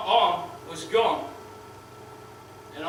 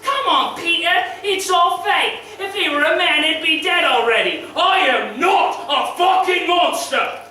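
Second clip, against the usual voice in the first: high, loud sneering imitation of the woman; mocking woman's voice; 8 semitones higher, 4 dB louder than usual. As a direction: mimic her scornful jeer, pitched way up. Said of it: "walks up and says".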